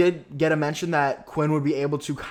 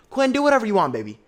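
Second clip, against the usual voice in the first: higher, louder, sing-song sass; sassy taunt; 7 semitones higher, 5 dB louder, faster than usual. Real, not acted. Viewer teasing Quinn, high sassy taunt. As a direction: tease him sweetly and dismissively.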